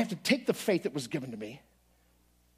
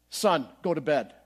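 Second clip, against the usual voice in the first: father's command; 2 semitones lower, slower than usual. Retold or imitated. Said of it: "the very famous words".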